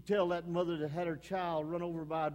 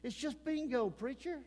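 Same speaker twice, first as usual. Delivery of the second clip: mock tempting excuse; 5 dB quieter than usual. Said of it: "Jezebel to say".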